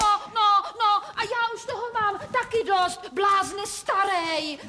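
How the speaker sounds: mock angry retort. Mother snaps back.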